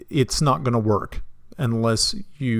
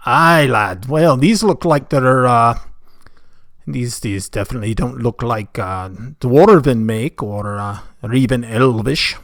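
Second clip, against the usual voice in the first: attempted Scottish dwarf; 5 dB louder than usual. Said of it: "accents for dwarves".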